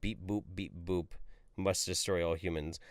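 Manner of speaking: flat robot voice, beeping. Retold or imitated. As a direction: read it like a robot. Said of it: "Cyborg tranny Jeff".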